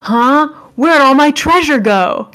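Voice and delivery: high, bright-eyed anime heroine; cute anime girl voice. Pretend. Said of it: "in a super anime girl voice".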